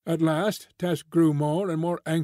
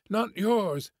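pleading; 6 semitones higher than usual. A narrator's reading. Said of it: "she pleaded".

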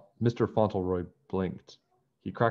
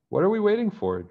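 much higher, louder eager call; eager urging; 13 semitones higher, 5 dB louder than usual. Acted. George urging her friends to chase, eager and loud. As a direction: fire them up to chase.

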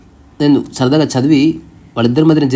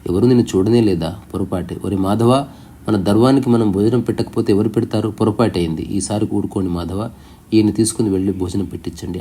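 soft, humble apology, a bit quieter; 3 dB quieter than usual. Retold or imitated. The sage humbly apologizes to the angry man, soft and meek. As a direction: gently own the mistake and make amends. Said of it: "మహా వినయ స్వరంతో".

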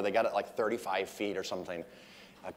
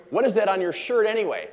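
higher and louder quizzing; mock demanding; 9 semitones higher, 7 dB louder than usual. Comedian demanding to know what's on the shirt, mock insistence. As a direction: press him for an answer. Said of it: "He goes".

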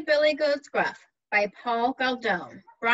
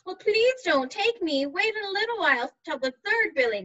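second goat; 5 semitones higher than usual. Acted. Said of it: "I am your second Billy Goat".

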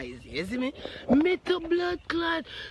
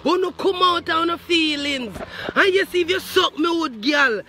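loud rant; 2 semitones higher, 5 dB louder than usual. Retold or imitated. Ranting loudly at Shaquille.

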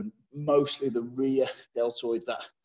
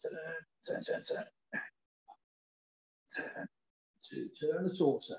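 doing side planks; 2 semitones higher, 13 dB quieter than usual. Real, not acted. Straining through second side planks.

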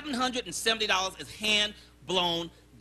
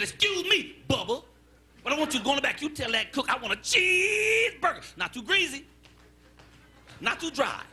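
customer with attitude; 5 semitones higher than usual. Acted. Diner with an attitude tells the waiter his order, pushy. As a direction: order pointedly, pitch jumping up on key words. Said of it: "he had an attitude problem".

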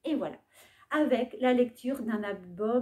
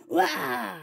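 wolf roar; 10 semitones lower than usual. Acted. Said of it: "Le loup bondit en criant".

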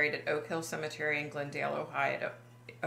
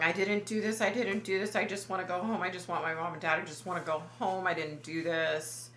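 retold yelling plea; faster than usual. Captive young man begging to go home, retold yelling plea. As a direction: plead in an unbroken run, no real shout. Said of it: "the young man starts yelling".

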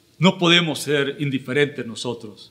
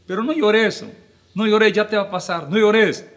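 pitched up, coaxing someone out of tears; soothing "don't cry"; 7 semitones higher than usual. Retold or imitated. Well-meaning friend telling a crying person not to cry, coaxing higher voice. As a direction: hush a crying friend, a bit higher than usual. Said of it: "van y le dicen".

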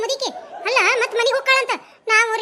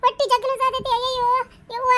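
higher, mock moaning over a stomach ache; fake pain wail; 3 semitones higher than usual. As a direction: put on a hammed-up ache. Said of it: "ಹಾ, once more".

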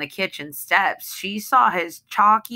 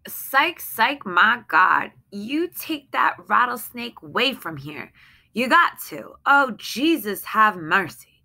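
frightened pleading, higher but held in; anxious pleading; 5 semitones higher than usual. Acted. Wife begs husband to remove the snake, tense but restrained. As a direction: beg him, scared but contained. Same lines read again, calmer.

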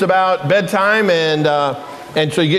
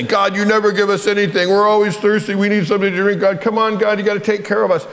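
higher-pitched, mildly acted grumbling; complaining; 4 semitones higher than usual. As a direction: grumble at God, lightly hammed-up. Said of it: "they complain and say".

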